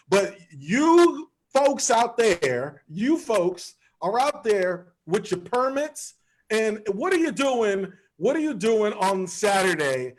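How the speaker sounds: high, slow mock outrage radio host; conservative radio host. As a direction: play an indignant talk radio host. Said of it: "I'm trying to sound like the conservative radio host".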